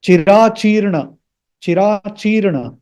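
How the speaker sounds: Chirachirna with long middle and a full final a; careful pronunciation. Shown as a demonstration. Teacher repeats the correct form after a caution, careful pronunciation. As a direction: voice the last a of Chirachirna clearly. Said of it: "please don't pronounce it as".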